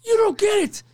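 high-pitched, urgent coworker; mock dismay, pitched well up; retold alarmed warning. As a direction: impress on him how bad this is. Cook warns the new guy.

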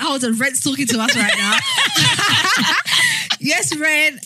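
giggling through the words; breathless giggly reply; laughing. Real, not acted. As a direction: laugh while you talk. Laughing at Ren's message.

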